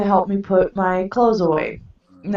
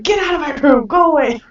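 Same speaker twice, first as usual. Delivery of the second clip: mild retold anger; 7 semitones higher, faster than usual. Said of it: "I got angry at him".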